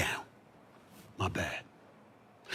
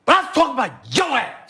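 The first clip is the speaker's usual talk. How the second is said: shout; 8 semitones higher than usual. Real, not acted. Heated rant aimed at LeBron.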